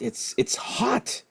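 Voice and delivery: hushed, slow whisper; slow whispered complaint to a friend; whispered aside. Retold or imitated. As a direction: lean in and whisper it slowly. Whispering complaint to buddy at concert.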